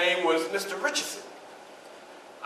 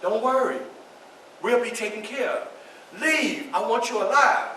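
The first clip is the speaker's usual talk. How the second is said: gentle reassurance; 4 semitones higher than usual. Acted. Wife reassures her husband.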